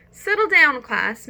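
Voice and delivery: teacher quieting a new class; teacher calling out. Acted. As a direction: settle the room down firmly.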